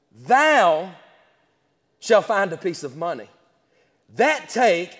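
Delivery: slow, weighty reading that leans on "Go", "cast", "thou" and "give"; emphasized scripture reading. Shown as a demonstration. Preacher reads the verse to his church, slow and emphatic. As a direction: drag out each key word of the verse. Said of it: "I'm gonna emphasize a couple words here".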